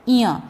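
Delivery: इया as a single nasal "nya"; palatal nasal sound. Shown as a demonstration. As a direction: demonstrate इया with the tongue on the palate, through the nose. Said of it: "उसका उच्चारण इया आएगा".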